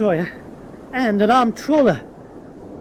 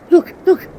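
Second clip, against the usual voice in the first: excited call; 7 semitones higher, 6 dB louder than usual. Acted. Spots the destroyer arriving.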